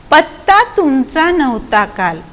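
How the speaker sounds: slow, measured verse line; poem recitation. Shown as a demonstration. Teacher reading a poem line to pupils, slow recitation. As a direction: recite it with drawn-out words.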